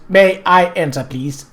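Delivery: stiff robot voice. Pretend. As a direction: read it like a machine. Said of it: "in your best robot voice".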